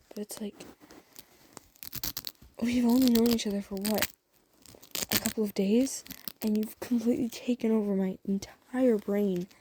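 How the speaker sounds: mildly exasperated confession, gaining force; slightly exasperated. Acted. Crush admits he can't stop thinking of listener, slightly exasperated. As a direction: let helpless frustration push the words out. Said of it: "he sounds slightly exasperated".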